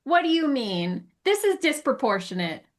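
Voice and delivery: light mock protest; mock indignation. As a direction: tease the dog with fake outrage. Voicing owner answering dog.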